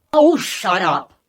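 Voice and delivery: low, slow, sneering; rude dismissive. Acted. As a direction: brush him off rudely. Rude kid reply.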